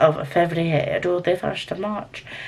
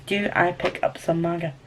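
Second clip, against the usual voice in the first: soft, more measured question to oneself; deliberate pondering; 6 dB quieter than usual. Real, not acted. Vlogger ponders picking up manga, soft and deliberate. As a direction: weigh the question quietly, word by word.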